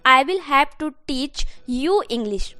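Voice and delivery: very slow, every word spaced; teacher dictating the English sentence; slow dictation. Shown as a demonstration. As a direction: read slowly so they can copy. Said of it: "मुझे आपको English सिखाना पड़ेगा।".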